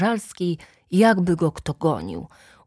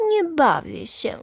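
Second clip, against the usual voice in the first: higher, mocking imitation of a sulky girl; mimicking the girl; 8 semitones higher than usual. Boy mimics the sulky girl for the kids, mocking high voice. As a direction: ape her pout to make the kids laugh. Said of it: "zupełnie tak samo powiedział".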